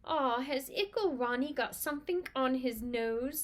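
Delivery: slow, lightly cooing tease; mock baby talk. Twins mocking their little brother, light baby-talk teasing. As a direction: coo at him like a baby, lightly.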